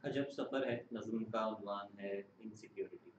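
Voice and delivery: measured, solemn poem reading; stately nazm recitation. Acted.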